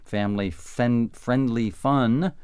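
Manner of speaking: slurred, slow; struggling to get the words out; trouble enunciating. Real, not acted. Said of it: "Having a little trouble enunciating".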